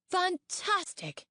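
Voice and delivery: thrilled. A narrator's reading. Mastermind thrilled by scrolls.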